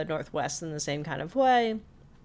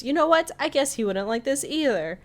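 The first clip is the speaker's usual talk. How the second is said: decide to go all in; defiant Grenda; 8 semitones higher than usual. Retold or imitated. Grenda deciding to go all in, high defiant voice.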